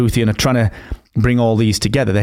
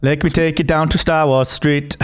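mock cockney villain; 5 semitones higher than usual. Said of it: "That's all it is".

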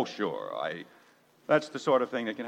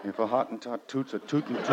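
laughing; 4 semitones lower than usual. Acted. Giddy nonsense rhyme while laughing.

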